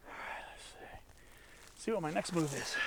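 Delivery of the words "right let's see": whispering. Real, not acted. Pausing mid-climb.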